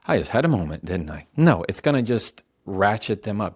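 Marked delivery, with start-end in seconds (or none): 0.0-1.3 sarcastically obliging; mock compliance. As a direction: play an absurdly agreeable reply. Mock compliant reply nobody would give.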